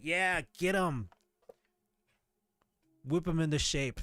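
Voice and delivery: egging him on. Retold or imitated. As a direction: drawl it out like a teasing cheerleader. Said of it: "She's like".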